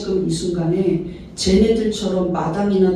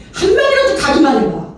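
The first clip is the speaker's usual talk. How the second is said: mock threat; 5 semitones higher, 4 dB louder than usual. 못 가게 으름장 놓는 장면.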